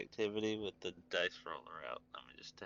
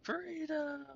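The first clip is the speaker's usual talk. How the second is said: high, rousing freedom shout; Helldivers cry. Pretend. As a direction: belt it like a patriotic soldier. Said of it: "You're not a hell diver?".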